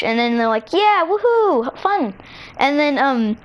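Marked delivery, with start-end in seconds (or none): 0.7-2.1 high, drawn-out slow whoop; cheering together. Acted. Two friends celebrating the same game, cheering together.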